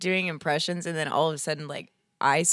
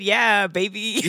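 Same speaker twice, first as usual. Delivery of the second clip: mom voice; 3 semitones higher, 6 dB louder, much slower than usual. Pretend. Mom voice attempt, slow cooing yeah baby. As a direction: coo it like a doting mom. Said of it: "a mom voice?".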